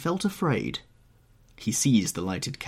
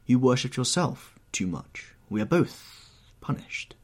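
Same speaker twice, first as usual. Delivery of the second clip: raised, fervent plea to repent; pleading painter; 4 semitones higher than usual. Acted. Painter urges young man to pray, pleading. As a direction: recite and urge with anguished earnestness.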